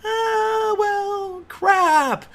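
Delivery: high, hammed-up letdown; a high, whiny mock groan; mock disappointed gamer. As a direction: play the disappointed player.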